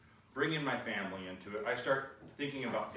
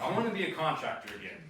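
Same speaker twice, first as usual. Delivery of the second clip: fed-up retort; 5 semitones higher, 3 dB louder than usual. Retold or imitated. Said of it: "and I said it with such a".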